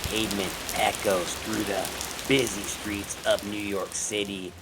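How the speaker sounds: measured, dramatic horror-story narrator; story narration. A narrator's reading. Narrator setting up a slasher victim's fate, dramatic storytelling. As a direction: read it like a suspenseful thriller opening.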